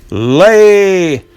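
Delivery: loud, high barked command. Acted. Giant ordering the hen, barked command. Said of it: "commands the giant".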